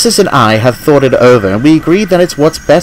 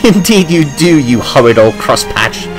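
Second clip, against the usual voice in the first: laughing tease; 4 semitones higher than usual. A narrator's reading. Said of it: "laughed Nancy".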